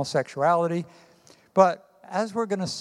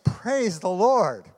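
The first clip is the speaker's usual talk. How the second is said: higher, louder, slow cry of praise; joyful shout; 4 semitones higher, 3 dB louder, slower than usual. Acted. Old lady on her porch praising each morning, loud joyful shout. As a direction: call it out to the sky like an old lady. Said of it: "shouted in a loud voice".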